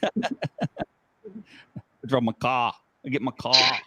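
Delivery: playful mock Brooklyn speech; hammed-up Brooklyn vowels; imitated Brooklyn accent. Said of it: "I love the Brooklyn accent".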